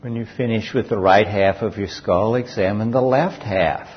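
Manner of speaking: unhurried guided body-scan voice, long pauses between phrases; guided meditation. Real, not acted. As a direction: guide listeners calmly through each sensation, leaving space after each.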